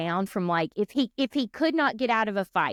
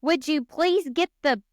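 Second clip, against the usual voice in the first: inner exasperated plea; 5 semitones higher than usual. Retold or imitated. Imagined inner plea to the cashier, mildly exasperated. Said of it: "in my head, I'm going".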